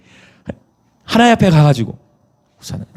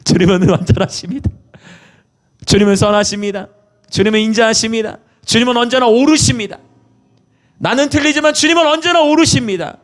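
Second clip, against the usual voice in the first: climbing higher with each line of praise; preacher voicing a prayer of praise that rises in pitch; rising praise; 9 semitones higher than usual. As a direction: build the praise step by step to a soaring peak. Acted praise prayer building.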